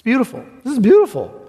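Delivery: preacher rejoicing over the master's welcome; exultant praise. Real, not acted. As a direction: let the joy break out. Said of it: "preacher exults".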